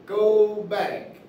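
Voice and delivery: teacher demonstrating a command to the class; firm command. Shown as a demonstration. Firm command demo.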